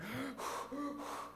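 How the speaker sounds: breathy gasps after a punch; acted winded gasping. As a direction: puff out pained breaths, hidden from onlookers. Acts the man gasping in back room.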